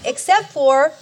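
ordinary talk, nothing marked

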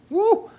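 a high, loud shout of joy; whooping at the thought of no pain; joyful whoop. Real, not acted. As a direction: let out a happy whoop. Joyful outburst about heaven.

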